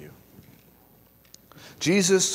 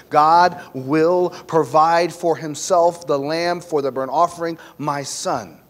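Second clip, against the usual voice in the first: shaky reply; 5 dB louder, slower than usual. Acted. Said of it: "Abraham saying shakingly".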